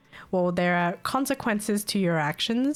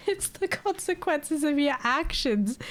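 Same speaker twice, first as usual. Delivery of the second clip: mock sing-song taunt; 8 semitones higher, slower than usual. Mocking the caller's line.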